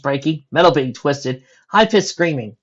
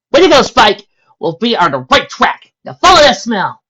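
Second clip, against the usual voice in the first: excited; 10 semitones higher, 11 dB louder than usual. Acted. Sunset cheers on dog Spike.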